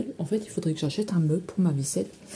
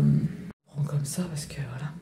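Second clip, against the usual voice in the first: whispered aside; 5 semitones lower, 6 dB quieter than usual. Real, not acted.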